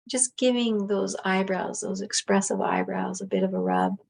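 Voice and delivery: talking through a yawn; words stretched by a yawn. Real, not acted. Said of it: "that's gonna make me yawn".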